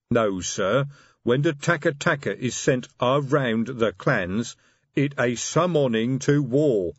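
slow patient troll; lightly voiced troll, slow and patient. Detritus voiced in story.

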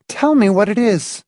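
high, sharp-voiced demand. A narrator's reading. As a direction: insist on an answer, sharply. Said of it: "Marcia said sharply".

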